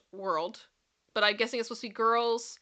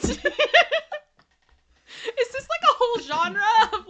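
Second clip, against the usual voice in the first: surprised; 12 semitones higher, 9 dB louder, faster than usual. Real, not acted. Disbelieving exclaim.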